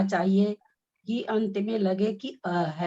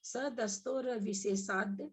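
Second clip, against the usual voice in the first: slow halting recitation; 9 dB quieter than usual. Shown as a demonstration. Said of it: "हम रुक के बोल रहे हैं".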